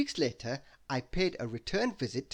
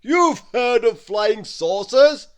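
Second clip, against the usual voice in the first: laughing; 8 semitones higher, 14 dB louder, slower than usual. A narrator's reading. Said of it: "he laughed".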